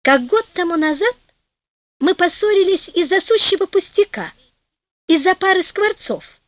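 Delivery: высокий голос жены, вспоминающей ссору; вспоминай с улыбкой, повыше. A narrator's reading. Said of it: "улыбаясь жена". (улыбчиво)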